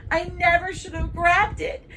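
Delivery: put-on high, loud crying child; hammed-up, wailing remorse; tearful apology. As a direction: blubber out an apology to your best friend. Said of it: "Bree starts crying too then".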